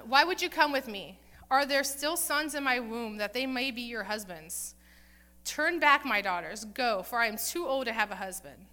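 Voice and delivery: loud, forceful reading as the bitter mother-in-law; yelling in bitterness. Retold or imitated. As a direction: hammer the questions and commands at them. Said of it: "as she is yelling at her daughter-in-laws".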